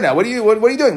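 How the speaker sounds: lightly acted surprised challenge; surprised question. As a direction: ask it in mild disbelief. Teller voices the man questioning workers.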